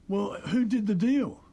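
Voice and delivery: mock alarm at who made the deal; a touch of alarmed disbelief; surprised question. Retold boss reacting to news.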